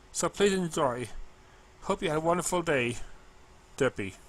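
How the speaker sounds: earnest, caring little letter in her voice; a hint of the sweet mail pony; Derpy's letter voice.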